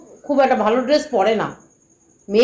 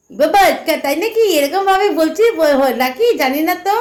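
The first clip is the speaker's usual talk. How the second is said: mocking giggly reply; 2 semitones higher than usual. Mocking critics who giggle and feign innocence, in a teasing, laughing voice. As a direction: mimic their sly laughing innocence, lightly hammed up. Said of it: "হেসে হেসে ওরমভাবে বলবি না".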